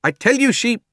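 high, loud protest; indignant fat man. A narrator's reading. Fat man insisting to the policeman, high and loud. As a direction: start an outraged protest.

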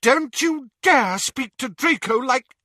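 high, loud angry mother; furious. A narrator's reading. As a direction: snap in a mother's fury. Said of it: "said Narcissa furiously".

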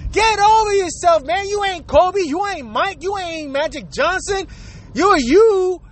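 ranting. Real, not acted. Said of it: "ranting anger".

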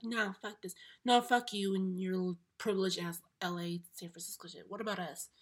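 loud, scornful quoted rant at outsiders; mock angry rant. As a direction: throw it back at them like an outraged local. Mock rant quoting people from LA.

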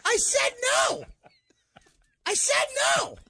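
squeaky strained cry of no; high, strained mock whimper of no; high pained no. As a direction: push out a thin, high wounded no. Retelling pained refusal, very high.

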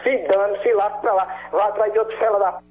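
fast, furious brush-off; angry cursing. Real, not acted. Victim tells the caller to get lost, angry. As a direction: spit it out fast to get rid of him.

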